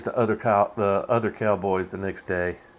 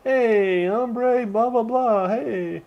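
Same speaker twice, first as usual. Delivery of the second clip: higher, lively voice for the rider; mock rider greeting; 11 semitones higher, much slower than usual. Rider hailing the old man, higher and breezy.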